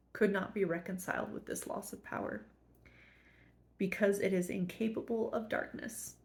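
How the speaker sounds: fighting back tears while reading on; emotional. Real, not acted. Reading the text to viewers, suddenly moved, close to tears. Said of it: "making me emotional all of a sudden".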